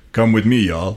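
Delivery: put-on a first, barely shifted try at a Russian Southern accent; Russian Southern attempt. Asked for a Russian Southern accent, a light first try. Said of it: "can you do, like, a Russian Southern accent".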